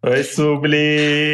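drawn-out sing-song hello; slow sing-song greeting. Shown as a demonstration. Couple demonstrating their greeting to Subli, drawn-out sing-song. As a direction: stretch the name out slowly, singing it. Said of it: "A gente manda assim pra ela".

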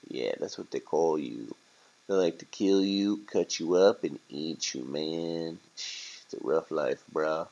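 lightly voiced low, casual rat; a hint of streetwise rat, matter-of-fact; laid-back rat. Rat breaking bad news to turkey, laid-back.

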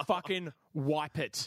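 slow, emphatic retold command; insistent order. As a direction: imitate a fed-up passenger's order. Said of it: "She says it like that".

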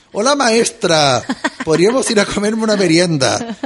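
mock the stilted foreigner's phrasing, drawn out; hammed-up formal learner voice; stiff bookish Spanish. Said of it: "hablaba como los picapiedras".

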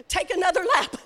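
chuckling through the punchline; laughing. Real, not acted. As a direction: laugh the words out.

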